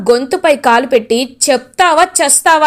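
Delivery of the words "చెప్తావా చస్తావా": threatening demand. Acted. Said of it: "గట్టిగా అడుగుతారు".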